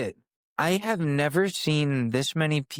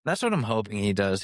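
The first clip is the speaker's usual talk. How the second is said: ordinary delivery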